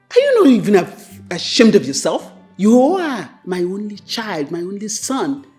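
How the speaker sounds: high, loud and reproachful; mother berating her only son; shaming scold. Acted. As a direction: make him feel ashamed.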